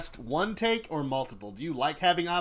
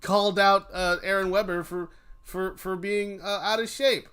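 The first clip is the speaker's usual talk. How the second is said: higher, louder mock news anchor voice; mock news report; 5 semitones higher, 8 dB louder than usual. Mock anchor announcing Rodolfo called out Aaron Weber. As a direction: announce the gossip like a breaking headline. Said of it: "People are gonna be all like".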